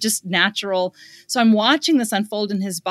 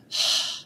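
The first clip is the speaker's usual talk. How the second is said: sigh; 4 dB quieter than usual. Shown as a demonstration. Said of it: "You're like".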